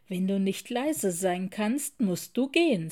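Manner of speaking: streng und bestimmt, etwas lauter. Acted. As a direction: klare Ansage einer strengen Bibliothekarin. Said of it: "sagte sie streng". (Bibliothekarin weist den Löwen streng zurecht)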